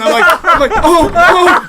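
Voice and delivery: laughing hard while talking; words breaking into laughter. Real, not acted.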